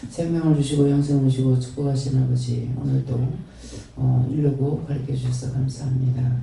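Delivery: earnest, steady prayer voice addressed to the Father; closing prayer. Acted. Pastor closing the sermon in prayer to the Father, reverent prayer. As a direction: pray it reverently and evenly.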